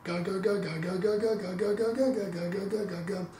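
a soft ga repeated, not a hard ka; soft K syllable. Shown as a demonstration. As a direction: keep each ga gentle and even. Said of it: "my syllable would be".

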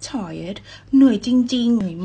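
slow "I'm really tired" for learners; slow practice reading. Shown as a demonstration. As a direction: read it slowly and clearly. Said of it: "เอา really มาช่วย".

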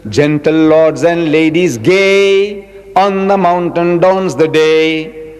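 slow, lilting verse reading; poem recitation. Shown as a demonstration. Remembering a school poem, reciting it slowly. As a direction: recite the old rhyme slowly, savouring it. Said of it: "poetry, English poetry".

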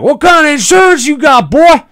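high, loud hollering Southern road rage; angry Southern redneck. Pretend. S0 as Big Earl yelling at a driver who almost hit them. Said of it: "started getting, like, angry".

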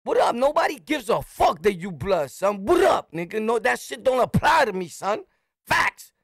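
confrontational challenge. Retold or imitated. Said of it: "I'm like".

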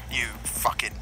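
hushed whispered jab; whispered jab at a teammate. Real, not acted. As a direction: whisper the insult teasingly. Whispered insult after making up.

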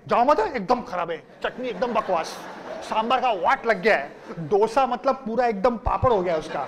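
rattled-off rapid grumble; fast complaining. Retold or imitated. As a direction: complain quickly, all in one breath. Student's retold complaint about canteen.

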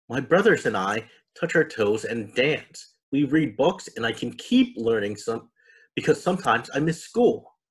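a hint of a little girl explaining; young girl. The speaker tells of home life.

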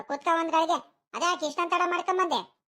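cross, high-pitched questioning; irritated scolding. Acted. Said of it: "ನಿಧಾನಕಾರ ಮಾತಾಡೆ".

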